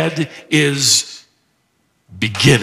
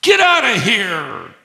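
high, lightly acted get lost, slowing at the end; demon telling Jesus off; 6 semitones higher than usual. Shown as a demonstration. Pastor voicing the demon heckling Jesus in the synagogue. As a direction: brush him off like a rude heckler. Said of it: "he's essentially saying".

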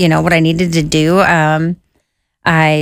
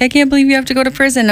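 higher, fast mock of weeping friends; tearful disbelief; 7 semitones higher, faster than usual. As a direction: rush it out, pitched up in shock. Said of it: "they're like".

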